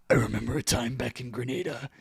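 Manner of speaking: lightly voiced old soldier reminiscing; a hint of a grizzled vet; war veteran storytelling. Veteran telling war stories through his puppet, lightly voiced. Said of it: "telling, like, war stories".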